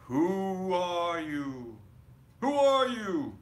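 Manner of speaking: teeth-chattering fear; frightened stutter. A narrator's reading. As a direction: stammer the question in terror. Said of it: "stuttered through the chattering teeth".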